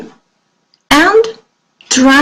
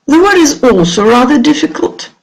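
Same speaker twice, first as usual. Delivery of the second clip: normal talking voice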